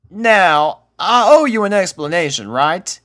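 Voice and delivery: folksy explainer; country cowgirl. A narrator's reading. Applejack voiced.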